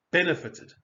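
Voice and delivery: BENEFITED with a light, unstressed ending; first-syllable stress. Shown as a demonstration. Teacher shows the unstressed ending, BENEFITED stressed on BEN. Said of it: "no stress on that".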